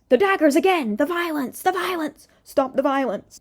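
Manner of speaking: high, loud mock alarm; mock outcry. Commentator pleading against daggers in the lyrics, mock alarm. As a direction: cry out in overblown protest.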